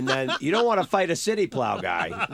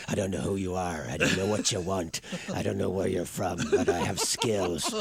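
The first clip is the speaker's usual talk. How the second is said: much lower, softer, menacing movie-hero voice; Liam Neeson; 8 semitones lower, 4 dB quieter than usual. Retold or imitated. Telling radio hosts about a movie, low menacing impression. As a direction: growl it low and quiet like a tough action star. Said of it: "You know, it's the voice".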